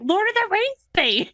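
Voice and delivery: high, gushing Lord of the Rings thing; excited fangirl. Retold or imitated. Recalling her own innocent excitement, high and gushing. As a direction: gush like a thrilled fan. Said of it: "I was just like".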